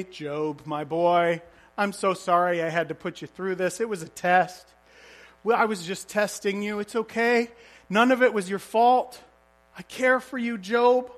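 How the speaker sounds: God gently comforting Job after his suffering; tender reassurance. Acted. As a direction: soothe him like a loving father apologizing.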